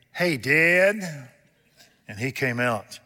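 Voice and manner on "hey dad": a touch higher and louder, calling out; yelling for Dad. Retold or imitated. Boy calling his father out to the broken mower, mild yell. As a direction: call your dad from the yard. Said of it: "And so I yelled again".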